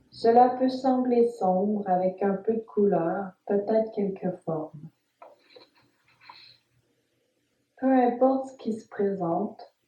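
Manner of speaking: calm, measured Yoga Nidra guidance with long pauses; guided meditation. Acted. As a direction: guide the listener phrase by phrase, leaving space after each instruction. (voix posée de méditation guidée, entrecoupée de silences)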